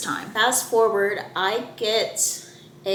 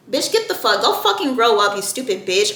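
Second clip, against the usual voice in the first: heated retort to someone absent; worked-up venting, falling off at the end; angry telling-off. Retold or imitated. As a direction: spit out the insult in exasperation.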